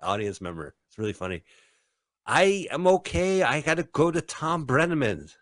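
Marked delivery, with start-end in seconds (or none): 2.3-5.4 put-on old lady voice. Voicing the old lady hit.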